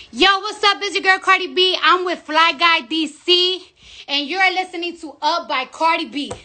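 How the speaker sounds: a lightly hyped radio station ID; radio drop read. Acted. A rapper recording a radio show drop, mild announcer voice.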